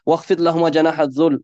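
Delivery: fast chanted Quranic verse; chanted Arabic verse; Quran recitation. Acted.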